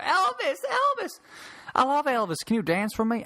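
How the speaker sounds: high-pitched gushing fan impression; freaking out. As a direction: mimic an overexcited lady swooning over her idol. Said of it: "as she freaked out".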